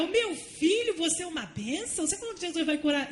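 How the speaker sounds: mock the astonished mother; surprised mother. Classmate's mother voiced in story.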